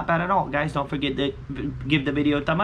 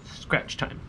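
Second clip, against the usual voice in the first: whispered; 7 dB quieter than usual. Real, not acted. Whispered aside before scratching.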